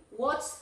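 "What's" with the s clearly sounded. Shown as a demonstration. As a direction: end "What's" on a crisp ts, rising. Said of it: "ahí va la S".

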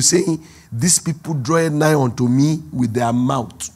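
slow, weighty rebuke to the Pharisees; Jesus rebukes the Pharisees in slow, solemn tones; Jesus rebuking. Acted. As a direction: draw out the words of scripture. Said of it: "Jesus was talking to the Pharisees".

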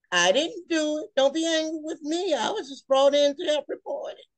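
high, playful protest of innocence; mock defensive plea. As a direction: plead innocence with a grin. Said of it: "playful plea".

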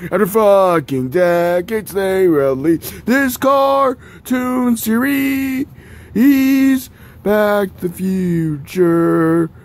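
thrilled announcement of the long-awaited series; excited reveal. Real, not acted. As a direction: present it like a trailer voice.

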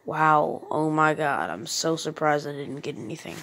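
deadpan fake surprise; dry, sarcastic mock amazement. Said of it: "I'm just being sarcastic right now".

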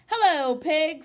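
cheerful duck greeting. Acted. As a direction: wave hello as a happy duck.

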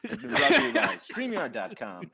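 slow mock sponsor read; ad announcer voice. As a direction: read it like a cheesy ad.

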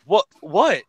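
robber's sudden indignant outburst; acted yell. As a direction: yell it back at a reproach. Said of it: "You didn't have to yell like that".

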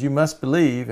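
half-hearted retold yell; mock scream. Cartoon zealot calling after a fleeing man, mild mock scream. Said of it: "he's still screaming".

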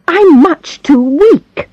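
high, slow, feeble complaint; weak invalid. Acted. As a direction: sigh it out, frail and sorry for herself.

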